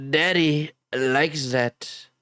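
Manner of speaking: slow Trump quote. Retold or imitated. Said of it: "impression of Donald Trump".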